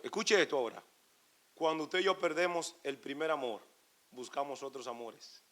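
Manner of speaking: hushed sermon voice; intimate preaching. Real, not acted. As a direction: draw them in, quiet and close.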